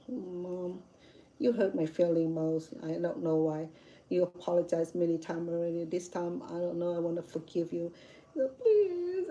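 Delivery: soft, subdued teary plea to mom; quietly hurt, a touch of tears; tearful plea. Retold or imitated. Daughter tells mom she's hurt, softly tearful. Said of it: "I started crying".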